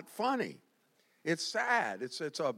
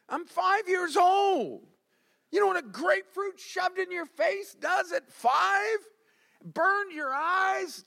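high, slow, loud outrage; indignant outcry; 12 semitones higher, 3 dB louder, slower than usual. Real, not acted. Preacher reliving grapefruit in the face, high indignant outcry. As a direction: cry out in hammed-up indignation.

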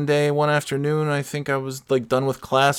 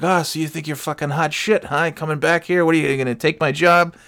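raised-pitch needling challenge; playful shit-talk, pitched up; mock trash talk; 4 semitones higher than usual. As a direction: needle the newcomer like a cocky coworker. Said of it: "he's, like, shit-talking me".

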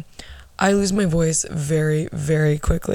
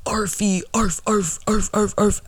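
mocking bully; 3 semitones higher than usual. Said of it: "he would go around saying".

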